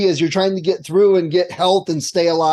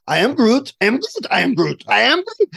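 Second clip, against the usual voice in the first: varied pitch, as if really explaining; mock explaining; 4 semitones higher than usual. Player explaining a card to confused friends, mock explaining. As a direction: explain earnestly using only those words. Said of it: "as if I was really explaining".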